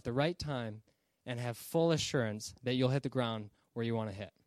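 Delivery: even, explanatory delivery; earnest flight attendant. Acted. Flight attendant warning passenger the plane will crash, earnest explanation. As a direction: explain it seriously, without the sales pitch. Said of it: "here's a better way of delivering it".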